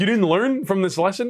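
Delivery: high, slow hammed-up dad; dad dressed like his kid scolding him, hammed up; mock exasperated dad. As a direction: drag it out in fake disbelief. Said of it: "he's like".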